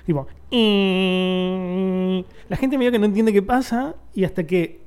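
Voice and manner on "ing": imitated machine whine. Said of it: "se empieza a escuchar un ruido".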